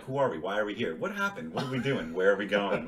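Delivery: string out the questions in a mild imitation; understated mock bewildered questioning; Vince Vaughn. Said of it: "just doing the Vince Vaughn thing".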